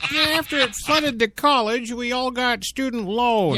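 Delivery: giggling through the line, high; laughing. Acted. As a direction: laugh while reading it. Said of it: "can I make any more nonsense".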